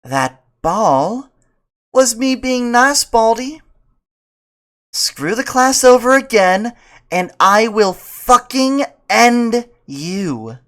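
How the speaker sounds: loud, slow, hissing menace; menacing threat. Acted. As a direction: threaten him slowly.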